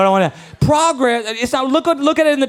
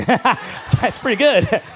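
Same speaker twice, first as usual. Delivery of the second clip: laughing; 3 semitones higher, 4 dB louder than usual. Real, not acted. Laughing at son's answer.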